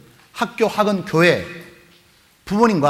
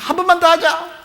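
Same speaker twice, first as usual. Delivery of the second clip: high-pitched acted begging; pleading schoolboy; 12 semitones higher, 3 dB louder than usual. Boy to friend at the PC room, high mock plea. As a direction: beg like a kid who keeps losing.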